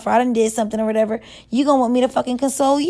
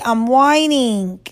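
long, drawn-out whine; self-confessed whine; whining; much slower than usual. Real, not acted. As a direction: stretch "whining" into a slow complaint.

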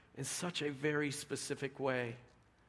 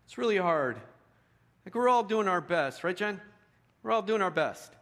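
exasperated emphasis; 7 semitones higher, 6 dB louder than usual. Real, not acted. Exasperated parent talk.

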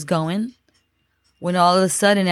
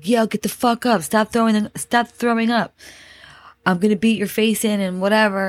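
mock angry yell, slightly raised pitch; retold yelling; 4 semitones higher than usual. Big man to sick boyfriend, mild mock yell. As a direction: imitate a bullying order without real volume. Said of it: "starts yelling at my boyfriend".

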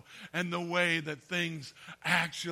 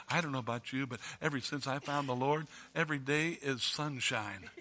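fervent new convert; 3 semitones lower, 3 dB louder than usual. Retold or imitated. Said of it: "we come to church like this".

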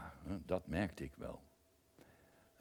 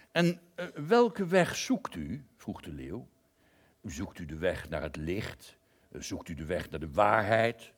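lion's voice; 7 dB louder than usual. Acted. Lion voiced in a story.

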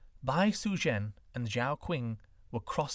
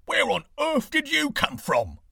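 high, loud startled beggar; startled cry; 13 semitones higher, 8 dB louder than usual. A narrator's reading. Beggar startled by the sudden woman, crying out. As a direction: shout it out in shock. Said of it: "he cried".

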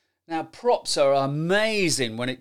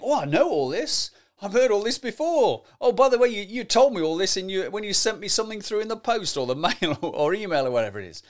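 higher, impatient been-there voice; bored listener; 5 semitones higher than usual. Retold or imitated. Listener tired of a rehashed presentation, impatient. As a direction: sigh it out like you've heard it all.

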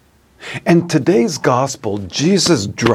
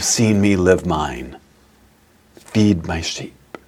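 gentle command; 3 semitones lower than usual. Retold or imitated. Jesus instructing Peter.

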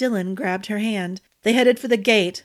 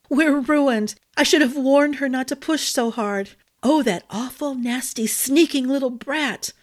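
higher, fretful fairy voice; fretting fairy; 5 semitones higher than usual. Acted. Glinna bursts in on Ambrose and Dylan, higher fretting fairy voice. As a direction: wring your hands and lament. Fairy frets after flying in.

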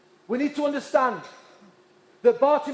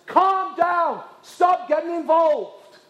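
raised, higher-pitched scolding; crowd's rebuke; 5 semitones higher, 4 dB louder, slower than usual. Acted. Crowd rebukes the shouting blind man, sharp raised scolding. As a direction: shush him forcefully, phrase by phrase. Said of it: "They rebuked him and said".

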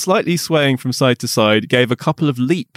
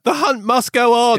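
mock rallying cry; 9 semitones higher than usual.

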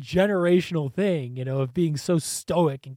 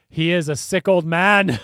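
put-on SICK OLD MAN punched louder; emphatic echo of heckle; 7 dB louder than usual. Echoes the heckle in agreement.

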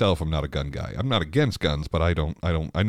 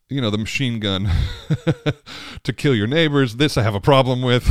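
half-laughing, louder and higher; 7 semitones higher, 5 dB louder than usual. Real, not acted. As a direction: laugh it out in disbelief. Laughing disbelief at machine guns.

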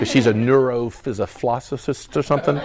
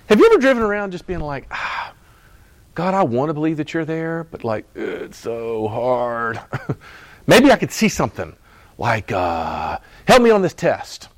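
mock whiny prayer.

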